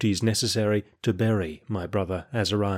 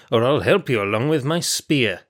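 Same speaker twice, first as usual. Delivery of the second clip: impatient threat. Acted. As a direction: spell it out like a guard at the end of his patience. Guard loses patience, threatens.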